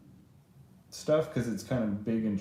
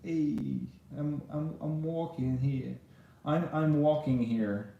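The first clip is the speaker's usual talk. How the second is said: classic New Yorker, lightly imitated; slightly higher mock New York voice; New York accent; 4 semitones higher than usual. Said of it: "He's a classic New Yorker".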